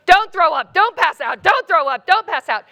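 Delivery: outside-voice self-talk. Retold or imitated. Frightened rider coaching herself on the way up, outside voice. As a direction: chant it out loud like a panicked mantra. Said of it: "Outside voice the whole way up".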